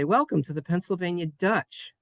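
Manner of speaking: "Dutch" with a short uh vowel; Anglicized Dutch. Retold or imitated. Teacher quoting the Amish market greeting, "Dutch" with short uh. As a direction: say "Dutch" as English speakers do, without the oi sound. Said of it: "didn't want to make the oi sound".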